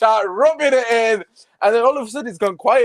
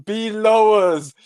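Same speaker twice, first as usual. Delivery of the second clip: gloating taunt; 4 semitones higher than usual. Real, not acted. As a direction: lean on every word to rub their noses in it. Taunting rival fans directly.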